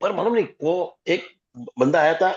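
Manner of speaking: choppy broken-up phone line; bad connection. Real, not acted. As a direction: voice cutting out over a call. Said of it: "you're breaking up".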